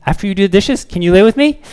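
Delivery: put-on high, whiny little kid asking; a hint of a clingy kid; pleading child. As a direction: beg like a small child at bedtime.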